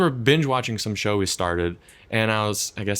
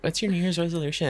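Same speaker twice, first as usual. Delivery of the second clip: put-on high Valley Girl voice; Valley Girl accent; 7 semitones higher, faster than usual. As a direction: ask it like a ditzy Valley Girl. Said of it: "a Valley Girl accent?".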